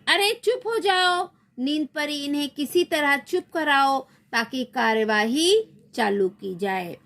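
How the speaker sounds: high, commanding queen; night queen voice. Acted. Night queen orders silence in play. (ऊँची आदेश भरी रानी की आवाज़)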